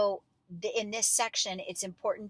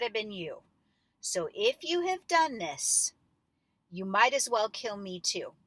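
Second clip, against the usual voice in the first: accusing conviction; 4 dB louder than usual. Shown as a demonstration. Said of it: "with great conviction".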